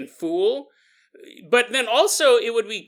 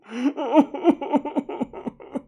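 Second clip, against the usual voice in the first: mock sobbing; 8 semitones higher than usual. Imitates the sobbing rope man.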